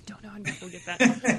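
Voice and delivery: a sly whispered gag; whispered joke. Real, not acted. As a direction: whisper the punchline through a laugh. Joking aside about the song.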